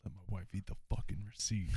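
quoting a comedy sketch line; bad acting. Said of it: "that's such a good video".

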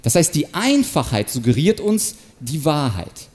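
ordinary delivery

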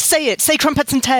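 a hint of the waiter's bizarre English accent. Waiter urging British diners to repeat him, mock English accent. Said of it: "it was a really bizarre accent".

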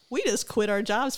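giggling at the surprise gift; laughing. Retold or imitated. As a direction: laugh through the words in happy disbelief. Laughing retelling of cruise gift.

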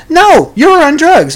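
high, slow accusing mom. Acted. Mother refusing to believe her son, slow and accusing. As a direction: drag it out like a fed-up mother.

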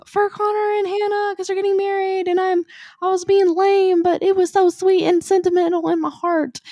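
high, loud scream over the ride noise; retold ride scream. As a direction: yell it out, way up high. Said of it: "I immediately scream".

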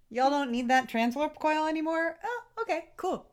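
very high, airy mock-polite voice; hammed-up innocent high voice; casual mock request. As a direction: act out a cheeky ask, pitch climbing high. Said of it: "they're like".

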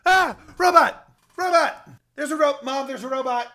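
put-on high, frightened child calling Mom; scared kid yelling. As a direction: shriek for Mom at the robot. Scared kid sees robot.

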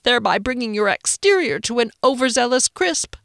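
high, loud, aggrieved whine; whiny frightened Phoenix. A narrator's reading. Phoenix accuses Rickenbacker in a high, loud whine. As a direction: complain like a pampered coward. Phoenix's fearful complaining rant.

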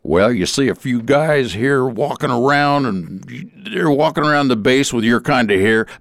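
put-on light southern accent, easygoing. Recruiter answering about long hair, light southern accent. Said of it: "the honesty in his southern accent".

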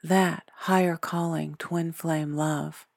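ordinary talk, nothing marked

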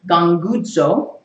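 "Ganguzo" drawn out slowly; demonstrated Greek pronunciation. Shown as a demonstration. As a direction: sound out "Ganguzo" slowly for listeners to repeat. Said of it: "You can pronounce it like this".

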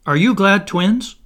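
high, loud, excited question; eager child asking. Acted. Toodles asking the other boys in turn, eagerly.

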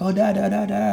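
high mock kid babble, excited; kids babbling. Kids on the street gawking at a black man, high mock babble. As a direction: imitate small kids gawking at him. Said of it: "being like".

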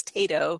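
first syllable of Tato rhymes with day; changed pronunciation. Shown as a demonstration. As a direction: say Tato as TAY-toe. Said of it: "So I changed my pronunciation".

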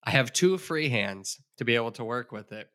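talking around a pen held in the mouth; words muffled by a pen between the teeth. Real, not acted. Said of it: "I have a pen in my mouth right now".

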